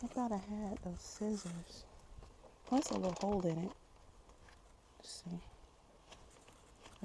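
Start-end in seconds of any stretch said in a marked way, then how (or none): 5.0-7.0 whispering. Real, not acted. Muttering to herself while working.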